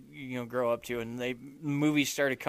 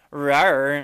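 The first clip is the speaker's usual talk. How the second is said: tiny squeaky trying to roar; 7 dB louder than usual. Retold or imitated. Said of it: "Do the roar".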